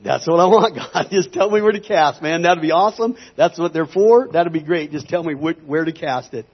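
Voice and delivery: eager outburst. Retold or imitated. Minister retells answering God's offer of a thousand, eager and loud. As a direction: jump at the offer, voice lifted.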